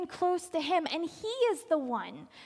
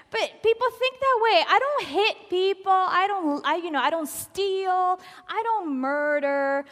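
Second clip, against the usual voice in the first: louder, smug voice of people who think they're good; mock the self-satisfied; mocking self-righteous tone; 3 semitones higher, 5 dB louder than usual.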